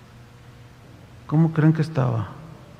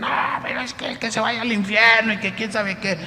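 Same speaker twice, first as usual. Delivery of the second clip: dismissive woman; 5 semitones higher, 4 dB quieter than usual. Retold or imitated.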